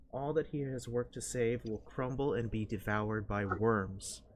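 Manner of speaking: lightly voiced ominous tempter, measured phrases; foreboding intoned voice. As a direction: intone it with weighty pauses, urging surrender. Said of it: "A foreboding voice cuts through".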